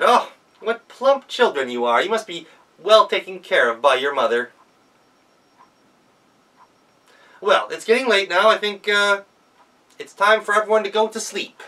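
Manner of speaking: high, loud fake-grandma voice; a wolf sweetly playing granny; wolf disguised as grandma, cooing at the girls; wolf posing as grandma. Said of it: "said the wolf in Grandma's clothing".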